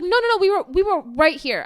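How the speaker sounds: high, loud whiny insistence; mocking the agent. Traveler mocking the insistent airline agent, high and whiny. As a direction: parody him insisting.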